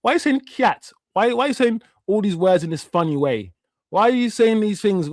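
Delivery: high, jeering schoolkid taunt, imitated; retold kids mocking a new boy's way of speaking; mocking bullies. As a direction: mimic the bullies sneering at his accent. School bullies mocking his accent.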